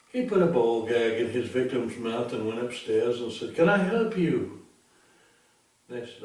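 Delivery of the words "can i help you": falsetto innocent greeting. Acted. Third pig answers the door.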